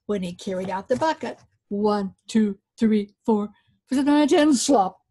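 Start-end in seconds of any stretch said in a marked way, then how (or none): 1.7-4.5 counting steps. Acted. 4.5-5.0 slop. Acted. Bucket dumped.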